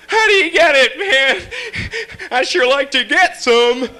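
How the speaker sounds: high, loud pushy stranger; guy who rear-ended me. Retold or imitated. Driver shouting at me through my window, high and pushy. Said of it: "He goes".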